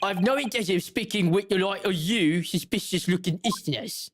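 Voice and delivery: attempted Cockney governor; Cockney accent. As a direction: refuse them in a loose Cockney. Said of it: "what accent is he speaking".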